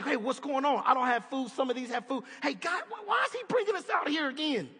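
a whiny complaint, voice rising on the question; grumbling complaint. Retold or imitated. Hungry Israelites griping to God, whiny. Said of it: "And they're like".

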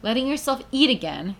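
incredulous reread. Shown as a demonstration. Rereading a surprising headline aloud, incredulous. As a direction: ask it back as if you can't believe it.

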